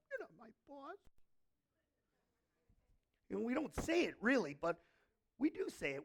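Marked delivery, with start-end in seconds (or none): 0.1-1.0 a lightly voiced sulky little kid, higher; defiant child. Believers talking back to God like a child, lightly sulky. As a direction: toss it off like a pouting child. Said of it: "like a little child".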